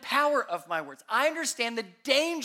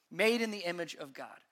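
soft and tender; 3 semitones lower, 6 dB quieter than usual. Acted. Tender restatement of God's view.

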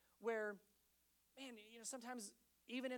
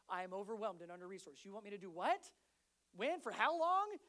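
overwhelmed dad; 5 dB louder than usual. Acted. Husband told to watch the kids, rising disbelief. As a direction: panic mounting at the question.

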